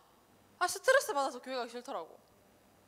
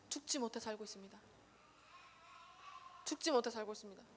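weary quiet quote; 2 semitones lower, 10 dB quieter, faster than usual. Retold or imitated. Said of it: "뭐라 하시는 줄 알아요?".

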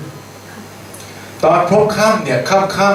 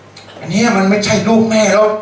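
slow, higher mocking tease; older siblings mocking the boy; teasing; 3 semitones higher than usual. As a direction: drawl it out to taunt the little brother. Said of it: "เขาเคยมักล้อผม".

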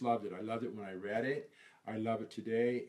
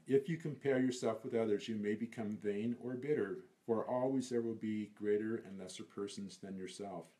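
measured, emphatic verse reading; poem recitation. Acted. Reciting the line he remembers all the time, measured recitation. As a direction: deliver it as a remembered precept.

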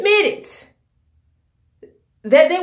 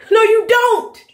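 flat denial; 8 semitones higher than usual. Real, not acted. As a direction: shut it down hard. Rejecting the stars' hypocrisy.

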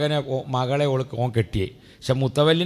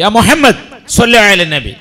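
higher and louder, pressing the angry man; louder insistent call; 4 semitones higher, 10 dB louder than usual. Retold or imitated. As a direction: repeat it louder with urgency. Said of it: "അപ്പോൾ ഒന്നും കൂടി".

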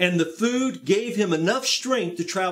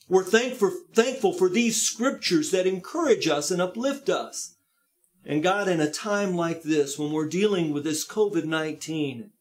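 earnest pastoral prayer voice; heartfelt pastor's prayer; closing prayer. Acted. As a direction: pray over the congregation.

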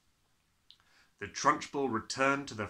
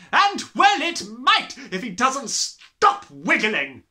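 slow, loud, much higher scorn; snorting; 11 semitones higher, 12 dB louder, slower than usual. Acted. Headmistress snorting at the wriggling boy. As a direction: sneer it out loud. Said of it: "snorted the Trunchbull".

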